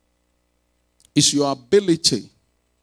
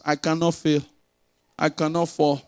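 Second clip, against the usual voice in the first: unemphatic reading; 6 dB quieter than usual. Shown as a demonstration. Preacher showing how he doesn't say the declaration, unemphatic. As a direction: recite it quietly without any push. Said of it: "I don't say it like that".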